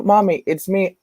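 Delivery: put-on high little kid voice calling for mommy; little child. Small son pleading with the woman at the door, high kid voice.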